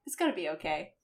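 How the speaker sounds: a hammed-up Scottish accent; Scottish brogue, badly faked; fake Scottish accent. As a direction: comfort him in a bad Scottish accent. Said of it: "I'm your Scottish person now".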